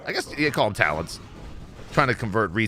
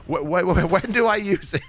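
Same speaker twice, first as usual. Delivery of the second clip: high, stammering mock panic; Chinglish, triggered; 8 semitones higher than usual. Confused teammate asking for help, stammering mock panic. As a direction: stumble over the question in a high imitation voice. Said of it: "he was so triggered the entire time".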